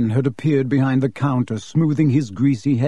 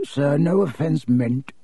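hasty apology, softer; slower than usual. Acted. Borgin apologises to Malfoy, hurried and deferential. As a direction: back down with a bow in the voice. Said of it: "Mister Borgin said quickly".

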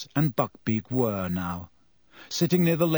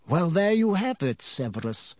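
calm, fading on the name; calmly; 5 semitones higher than usual. A narrator's reading. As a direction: gently close the matter. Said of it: "said Dumbledore calmly".

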